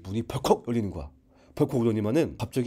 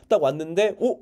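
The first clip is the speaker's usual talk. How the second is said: usual speaking voice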